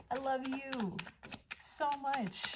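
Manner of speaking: high, drawn-out loving coo; gushing affection. Real, not acted.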